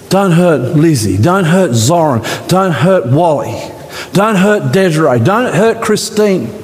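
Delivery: name each one, growing urgent; God protecting the congregation; God pleading. Acted. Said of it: "That's what God's saying today".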